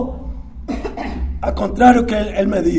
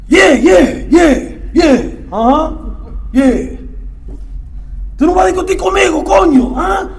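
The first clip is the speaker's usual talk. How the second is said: retold defiant retort; 5 semitones higher than usual. To his sponsor, a hammed-up defiant challenge. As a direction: goad him into arguing. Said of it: "Entonces me dice".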